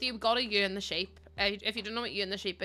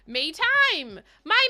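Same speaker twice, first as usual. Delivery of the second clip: high, loud outraged echo; incredulous scoff; 8 semitones higher, 8 dB louder, much slower than usual. Acted. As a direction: throw the phrase back in disbelief. Scoffing at idea of me time.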